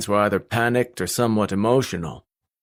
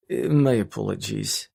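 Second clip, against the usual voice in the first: restrained. Acted. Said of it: "His voice was restrained".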